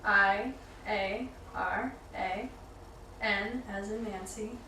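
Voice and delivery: slow, careful, polite spelling out; customer service voice. Acted. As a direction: spell it like a friendly phone agent. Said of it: "customer service, voice right there".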